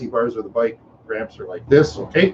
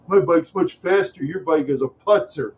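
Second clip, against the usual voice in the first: Chad; 4 semitones higher than usual. Retold or imitated. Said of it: "He says".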